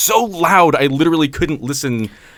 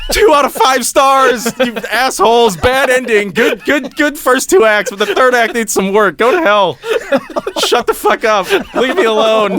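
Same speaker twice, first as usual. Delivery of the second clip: shouting a review out the window, laughing; mock review, laughing; 7 semitones higher than usual. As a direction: rant at the neighbors while cracking up. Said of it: "just be like".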